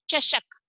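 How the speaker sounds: "चषक" said as shashak, with sh sounds; tongue to palate for the sh in "चषक"; palatal श. Shown as a demonstration. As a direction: model word "चषक", pronounced shashak. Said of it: "जीभ को कहाँ touch करना है".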